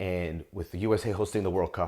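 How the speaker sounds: soft, low, hushed half-whisper with no voice. Talking about the USA hosting the World Cup: half-whispering. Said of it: "I don't know why I'm whispering".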